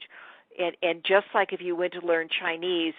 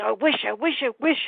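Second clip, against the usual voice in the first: put-on high, pleading girl voice; girl wishing; 7 semitones higher, 3 dB louder than usual. The girl wishing her baby stepbrother away, high pleading. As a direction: wish it out like a sulky teenager. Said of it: "She says".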